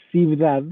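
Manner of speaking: "ciudad" read with a b, "cibdad"; lectura literal. Shown as a demonstration. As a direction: say "ciudad" as spelt in the old document, "cibdad". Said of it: "Entonces aquí se ve". ("ciudad" con b: "cibdad")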